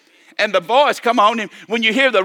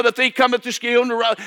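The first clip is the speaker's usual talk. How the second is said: quick rote quoting; 3 semitones higher than usual. Retold or imitated. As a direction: rattle the scripture off quickly. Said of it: "we quote that pretty quick".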